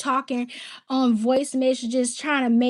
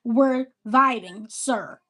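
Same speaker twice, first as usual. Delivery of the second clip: slow restated quote; slower than usual. Retold or imitated. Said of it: "that's what she meant trying to say".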